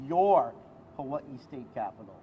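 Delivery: your leaned on as theirs, firm; stress on your. Real, not acted. Senator welcoming grieving families, stress on your. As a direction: press on your, it is their Capitol. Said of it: "Emphasis on the word yours".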